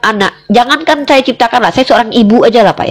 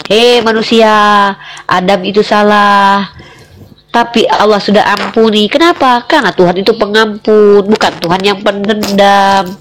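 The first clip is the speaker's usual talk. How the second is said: solemn proclamation; 4 semitones lower than usual. Acted. Debater telling humankind that Adam was forgiven, solemn proclamation. Solemnly renders verse as divine address.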